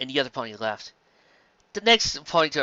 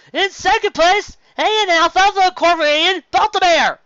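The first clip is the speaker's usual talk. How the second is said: awards announcer; 9 dB louder than usual. Acted. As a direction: boom it to the crowd.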